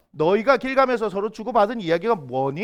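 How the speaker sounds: put-on careful Seoul-accent question, rising at the end; mock standard Seoul accent. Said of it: "이렇게 물어본 게 아니겠죠. 갈릴리 사투리로".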